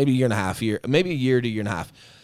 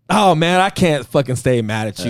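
louder, higher relieved friend giving in; friend softening; 3 semitones higher, 4 dB louder than usual. Retold or imitated. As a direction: melt into forgiveness, loud and open. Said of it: "He goes".

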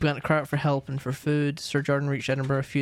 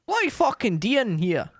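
angry ghost yelling; 10 semitones higher than usual. Acted. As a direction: shout like a trapped, starving ghost. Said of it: "Dunty's cry of".

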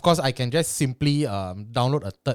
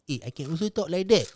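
another voice; 4 semitones higher than usual. Shown as a demonstration.

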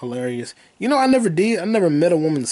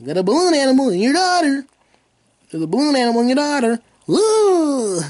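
giggling through it, pitched way up; high laughing delivery, slightly louder; 11 semitones higher, 4 dB louder than usual. Real, not acted. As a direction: crack yourself up saying it.

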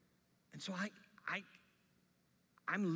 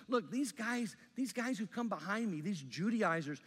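Paul preaching loudly; 2 semitones higher, 5 dB louder than usual. Retold or imitated. Pastor voicing Paul to the Galatians, loud impassioned preaching. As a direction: preach it hard like the apostle warning his church. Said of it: "what Paul's telling the church in Galatia is".

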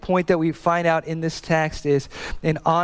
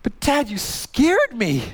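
little daughter's voice; 10 semitones higher, slower than usual. Retold or imitated. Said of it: "I was like".

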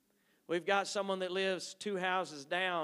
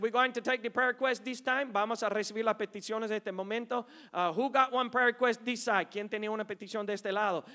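taking prayer requests; 2 semitones higher, 3 dB louder, faster than usual. Retold or imitated. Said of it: "And they said".

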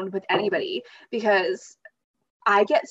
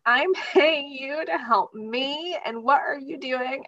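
higher, slow, hammed-up indignation; dramatic outrage; 4 semitones higher, slower than usual. Scolding people she pays to help her, mock diva outrage. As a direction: play the diva scolding a hired helper. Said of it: "But I'm like".

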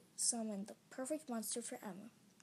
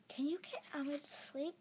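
whisper; 3 semitones higher than usual. Acted. Narrator pleading softly.

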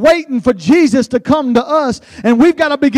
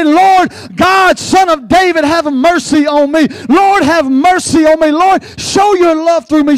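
raised, pleading shout of prayer; crying out to God; 3 semitones higher than usual. Acted. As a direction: call out to the Lord with full voice. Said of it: "scream out and cry out".

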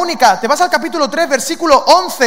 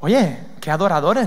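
usual speaking voice

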